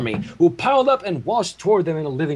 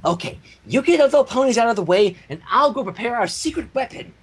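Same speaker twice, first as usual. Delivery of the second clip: commanding; 6 semitones higher than usual. Acted. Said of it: "Pinkie Pie commanded".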